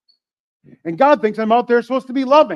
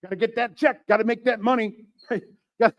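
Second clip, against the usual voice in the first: put-on street voice; 3 semitones higher than usual. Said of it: "I don't know why I'm talking like that".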